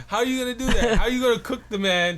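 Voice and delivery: worked-up high-pitched questioning; incredulous rant. Pretend. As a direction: demand it in disbelief. Ranting about cannibal scene.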